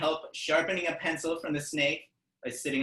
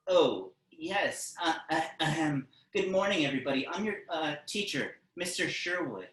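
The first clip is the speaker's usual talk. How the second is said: higher, hesitant armadillo teacher voice; shy teacher; 3 semitones higher than usual. Acted. Shy armadillo teacher introduces himself.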